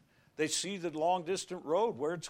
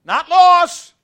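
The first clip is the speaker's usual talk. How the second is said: high, loud insistence; shouted correction; 14 semitones higher, 20 dB louder than usual. Real, not acted. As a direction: hammer it home. Preacher's emphatic correction.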